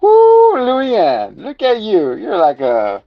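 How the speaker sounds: imitating Key and Peele. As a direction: woo her like the sketch guy. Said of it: "Key and Peele".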